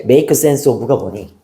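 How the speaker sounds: slow drill. Shown as a demonstration. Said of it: "센스를 만들다".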